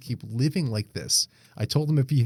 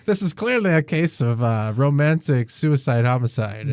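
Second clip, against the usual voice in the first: mock detective; 5 dB louder than usual.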